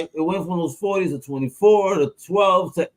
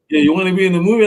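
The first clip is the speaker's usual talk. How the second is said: mock agent offer; 5 semitones higher, 7 dB louder, much faster than usual.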